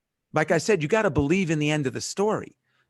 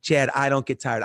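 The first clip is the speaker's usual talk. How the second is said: retold declaration with a touch more conviction; like you mean it. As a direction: repeat it as if you mean it, slightly firmer. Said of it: "Say it like you mean it".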